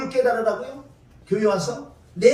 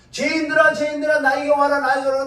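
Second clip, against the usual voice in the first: voicing Jesus calling; 3 semitones higher, 4 dB louder than usual. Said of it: "예수님 지금 부르고 있잖아".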